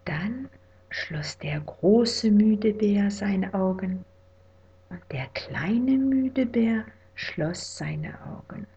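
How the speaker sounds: hushed, drowsy whisper; whispered bedtime story. A narrator's reading. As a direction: whisper them to sleep.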